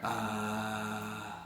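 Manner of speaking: soft airy ah; breathy tone. Shown as a demonstration. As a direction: open cords, breathy ah. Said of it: "now you can kinda hear that".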